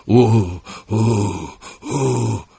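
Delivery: short pained oh cries, rising; a dying man's moans of pain; moaning cries. A narrator's reading. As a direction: groan out in agony. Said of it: "diye bağırıyordu".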